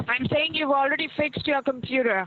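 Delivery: saying spoken up and clearly for someone who can't hear; to someone hard of hearing. Real, not acted. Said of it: "Talk up, I can't hear you".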